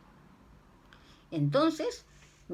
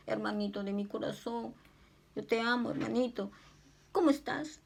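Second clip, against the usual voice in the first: tender comfort; 3 semitones higher than usual. Pretend. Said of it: "Dale una palabra de consuelo".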